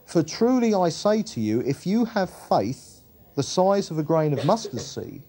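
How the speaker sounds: measured, emphatic Bible reading; preacher reading scripture in lifted phrases. Acted. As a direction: read the Gospel out clearly to a congregation. Reads scripture aloud.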